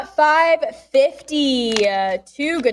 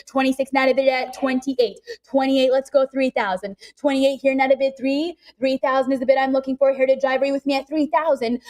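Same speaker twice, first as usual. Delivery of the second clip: rapid auction chant; calling bids like an auctioneer. Real, not acted.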